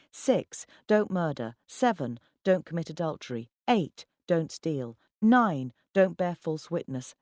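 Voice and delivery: firm, emphatic list; counted-off recitation. A narrator's reading. Narrator counting commandments at sceptical colleagues, firm recitation. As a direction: punch each number, then recite the rule.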